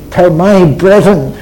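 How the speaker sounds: slow, with "my" drawn out; stress on MY. Acted. Preacher quoting the Lord's message to Mary, slowly stressing "my". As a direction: lean slowly and firmly on "my" before "brethren". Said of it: "The Lord is laying emphasis on that".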